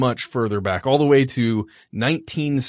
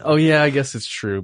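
ordinary talk

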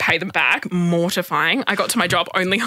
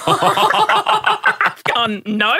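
laughing; 14 semitones higher, much slower than usual. Real, not acted. Laughing at the taxi offer.

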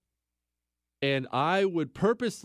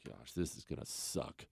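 whispered, much softer, full of dread; 13 semitones lower, 16 dB quieter than usual. Retold or imitated. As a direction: breathe it out like you're bracing for pain. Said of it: "I'm like".

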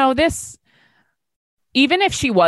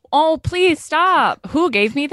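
mock protest; 9 semitones higher than usual. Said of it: "my paycheck comes".

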